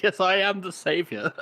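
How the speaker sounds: high, slow self-important proclamation; mock saviour boast. Cohost imitating the man opening the window, mock grand. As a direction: announce yourself grandly, in mockery.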